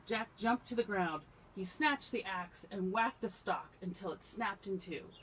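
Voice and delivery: animated fairy-tale climax; excited storybook narration. A narrator's reading. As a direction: read the chase with projected energy. Reads a story aloud to children.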